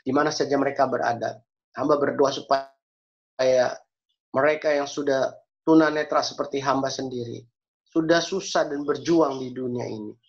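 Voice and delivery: measured, even praying voice; earnest prayer. Real, not acted. Preacher leads the congregation in closing prayer, earnest and measured. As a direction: address God steadily, phrase by phrase. Closes prayer for blind friends.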